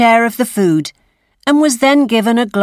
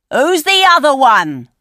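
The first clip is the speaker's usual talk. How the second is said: suspicious voice; 6 semitones higher, 3 dB louder than usual. A narrator's reading. Voice in dark house.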